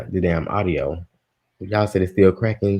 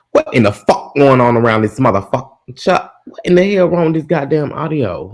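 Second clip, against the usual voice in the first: exasperated rant; 5 semitones higher, 4 dB louder than usual. Real, not acted. Streamer fed up with broken audio.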